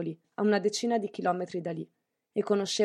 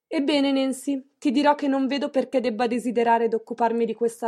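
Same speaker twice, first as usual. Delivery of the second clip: chin up, talk down to her; haughty lecture; 4 dB louder than usual. Acted. Aunt with raised chin lecturing Nancy, haughty.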